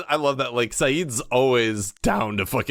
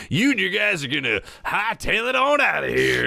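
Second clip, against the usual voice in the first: higher, barked order to clear out; mock tough shout; 8 semitones higher than usual. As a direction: yell it like a cocky bluff. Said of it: "he's like".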